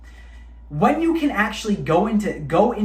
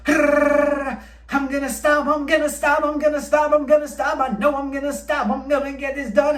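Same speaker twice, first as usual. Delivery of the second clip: mock straining resolve; 7 semitones higher than usual. Man on the brink, chanting to himself he'll stop. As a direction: keep repeating the promise, tense and high. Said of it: "what happens".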